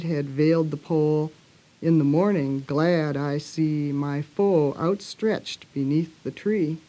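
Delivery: measured verse reading, pausing at line ends; poem recitation. Acted. Speaker reciting Blake's poem on anger, measured recitation.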